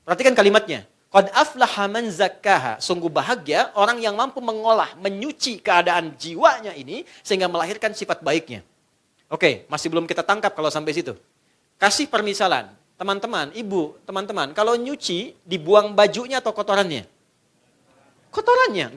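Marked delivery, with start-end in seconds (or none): 1.1-2.8 slow recited Arabic phrase; Quran recitation. Shown as a demonstration. Preacher recites the verse to the congregation. 18.3-18.9 sudden much higher exclamation; emphatic answer. Acted. Preacher answers his own laundry question emphatically.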